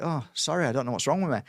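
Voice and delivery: mildly bewildered apology; apologetic. Retold or imitated. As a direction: back down and say sorry. Apologising after the angry outburst, retold.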